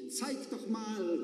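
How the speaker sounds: lightly voiced curious passenger; calling from the back. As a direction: call out from the back of the bus. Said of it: "rief es von hinten".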